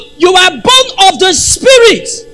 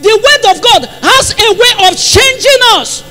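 emphatic; 5 semitones higher than usual. Real, not acted. First take, raised in emphasis.

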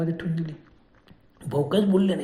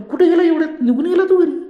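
nervous laughing; 11 semitones higher, 8 dB louder than usual. Acted. Friend suddenly vanished, laughing confusion.

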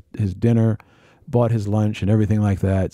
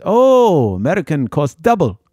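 pushy tout; 6 semitones higher, 5 dB louder, slower than usual. Retold or imitated. Guide doubling the price.

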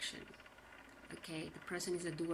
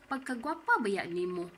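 louder, irritated mock compliment; agitated sarcasm; 3 semitones higher, 6 dB louder than usual. Shown as a demonstration. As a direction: praise them while plainly annoyed. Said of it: "agitated and at the same time sarcastic".

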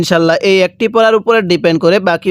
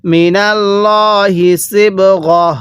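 slow, drawn-out tajweed chant; Quran recitation; much slower than usual. Shown as a demonstration. Teacher recites the verse for students, slow tajweed chant. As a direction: intone each syllable slowly like a reciter. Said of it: "কিভাবে পড়ব?".

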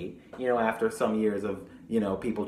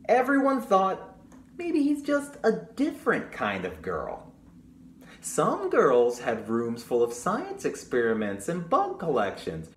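put-on reading to children. Librarian reading the story to children, storytime voice. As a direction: read it brightly to the children. Reads the book aloud.

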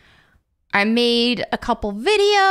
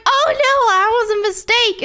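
high, louder imitation of a flustered reply; mock flustered friend; 10 semitones higher, 3 dB louder than usual. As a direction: act out a friend's embarrassed backtrack.

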